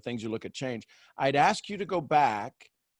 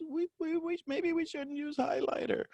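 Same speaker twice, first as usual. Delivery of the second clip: tiny high, soft squeak of a voice; timid mouse, very high and quiet; 13 semitones higher, 7 dB quieter than usual. Acted. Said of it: "the voice of a mouse".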